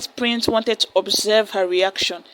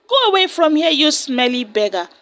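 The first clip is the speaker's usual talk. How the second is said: angry shout. Acted. Proud daughter drives off the beggar, angry shout. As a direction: snap at the dirty beggar to go away. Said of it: "shouted at the pestering dirty beggar".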